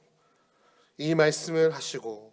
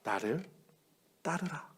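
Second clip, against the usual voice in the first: solemn call; 10 dB quieter, slower than usual. Acted. Jesus's call repeated.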